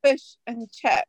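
slow, careful New Zealand vowels; deliberate go at Kiwi vowels; attempted Kiwi accent. Shown as a demonstration. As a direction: sound out a Kiwi accent slowly. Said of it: "in her best Kiwi accent".

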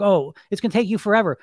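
lightly voiced nag in the head; inner bully voice. Inner bully discouraging a dieter, mildly mocking. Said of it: "that bully voice".

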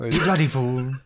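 put-on duck voice slipping towards an Indian accent; odd-accented talking duck; talking duck impression. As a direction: imitate a duck attempting Australian English. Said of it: "a little bit of an Indian accent".

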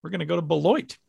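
put-on thick Wisconsin accent; playful mock Wisconsin accent. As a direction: lay on your most Wisconsin accent. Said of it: "my most Wisconsin accent there".

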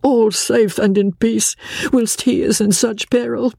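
tearful French émigrée pleading in broken English; French accent. A narrator's reading. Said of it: "she said in broken English".

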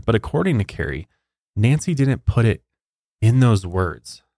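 scripted storytelling with measured pauses; true-crime narration. Acted. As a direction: read the case out as a story.

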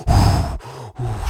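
forceful huffing puffs of breath; blown-out panting sounds, imitating an exhausted reindeer; imitated heavy breathing. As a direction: huff like a winded, panicked animal. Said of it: "trækker vejret sådan".

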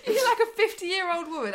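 teasing through laughter; laughing. Real, not acted. Teasing co-host, laughing at her new Pilates plan. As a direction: laugh at your co-host as you tease.

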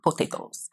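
potatoes whispered very softly with no voice. Shown as a demonstration. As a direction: say potatoes in a hushed breath. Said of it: "That's how we say it".

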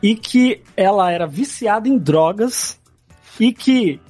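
ordinary talk, nothing marked

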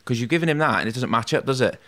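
dad pressing his point, pitched high; mock-urgent dad pushing the portfolio at her; insistent retold dad. Dad insisting to the teacher over the drawings, high and pressing.

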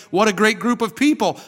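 high, loud gushing over people; enthusiastic praise. Retold or imitated. The wrong praise, then corrected.

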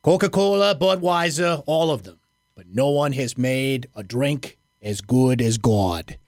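a touch of a New England coach, slowing at the end; lightly voiced New England coach with a slow closing line; Mac impression, New England. Host trying his rusty coach impression, lightly voiced New England tinge. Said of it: "I do a little bit of a Mac impression".

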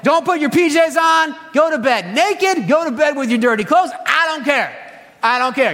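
a worn-out parent giving up at bedtime; exasperated tired parent. Retold or imitated. Parent at end of a long day telling kids to skip bedtime, fed-up rant. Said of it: "You're like".

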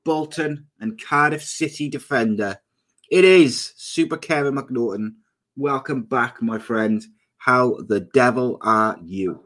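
guest introduction. Acted. Host introduces his regular guest, announcer-style welcome. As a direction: show host's announcing delivery.

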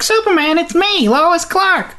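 high, hammed-up damsel voice; Lois Lane calling out. Lois calling to Superman, mock-eager damsel. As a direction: call up to the hero, pitched high.

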